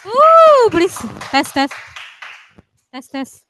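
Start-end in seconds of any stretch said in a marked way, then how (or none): 0.0-0.7 loud, high "woo"; excited cheer, much louder; cheering whoop. Real, not acted. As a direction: let out a big high-pitched whoop. Cheering before the mic test.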